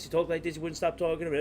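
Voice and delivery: imitating rapid-fire, run-on chatter; mock nonstop talker. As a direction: rattle it off like someone who won't stop talking.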